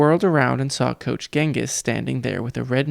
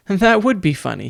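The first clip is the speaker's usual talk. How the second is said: forced bright, higher and louder; fake cheerful; 6 semitones higher, 4 dB louder than usual. A narrator's reading. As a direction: sell the lie with false cheer. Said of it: "he lied".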